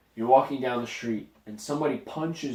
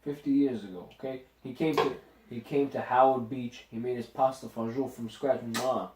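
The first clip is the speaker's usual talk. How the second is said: put-on Italian-American accent. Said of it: "accent corner of the week".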